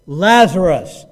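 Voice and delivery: booming, drawn-out command; loud voice. Acted. Preacher voices Jesus calling Lazarus from the grave, loud command. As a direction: call out loudly with full authority. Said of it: "says in a loud voice".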